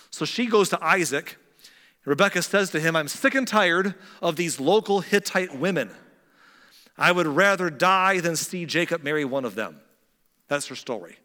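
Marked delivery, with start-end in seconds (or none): 2.9-9.8 loud, raised complaint to a husband; fed-up wife. Acted. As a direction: act exasperated, pushing the volume. Rebekah complains to her husband.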